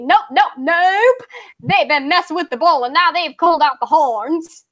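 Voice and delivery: Southern accent, angry author. Shown as a demonstration. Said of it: "I'm gonna read this in a southern accent".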